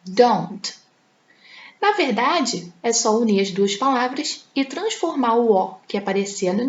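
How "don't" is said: "Don't" said as one clipped syllable; teacher modelling "Don't"; contracted form. Shown as a demonstration. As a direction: say "Don't" as a single word. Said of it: "se torna don't".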